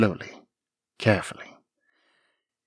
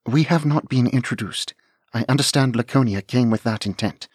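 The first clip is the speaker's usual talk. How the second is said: a touch higher and louder, careful; polite young lady; 4 semitones higher, 4 dB louder than usual. Acted. Anne explaining herself to the dragon, polite and careful. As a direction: explain with steady courtesy.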